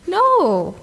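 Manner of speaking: sharp rejecting "No."; emphatic no. Real, not acted. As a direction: cut the idea off flat out. Rejecting the devotee attitude.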